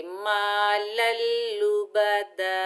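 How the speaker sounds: मालल लुबदा ending on a long दा; stop with alif. Shown as a demonstration. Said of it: "ऐसे पढ़ेंगे".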